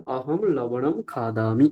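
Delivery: অহম লবণম খাদামি said slowly, syllable by syllable; slow Sanskrit model. Shown as a demonstration. Teacher reading the example sentence, slow and careful. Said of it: "কি বাক্য নিলাম?".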